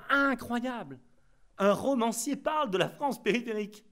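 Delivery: sarcastic imitation of the critics' wonder; mock astonishment. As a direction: parody the critics' gushing surprise.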